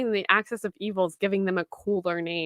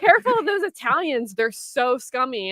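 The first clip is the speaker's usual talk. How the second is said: mock warning voice; 2 semitones higher, 4 dB louder than usual. Quoting warning people.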